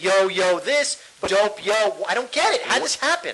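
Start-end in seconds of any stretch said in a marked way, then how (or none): 0.0-1.7 imitated slangy school kids; lightly mocked youth slang; mock kids' slang. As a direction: mimic kids talking in slang. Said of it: "they're talking like that".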